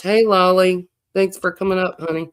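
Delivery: breathless, catching air between words; out of breath. Real, not acted. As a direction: talk while still winded. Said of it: "You can tell I'm out of breath".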